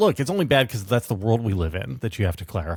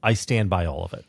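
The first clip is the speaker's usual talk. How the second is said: sincere; 4 semitones lower than usual. Real, not acted. Cohost restating his stance, now sincere and serious. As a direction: lower and steadier, meaning every word. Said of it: "to be non-glib".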